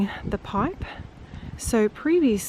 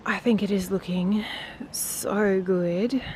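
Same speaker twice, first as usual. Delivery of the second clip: whispering; slower than usual. Real, not acted. Admiring the garden at day's end.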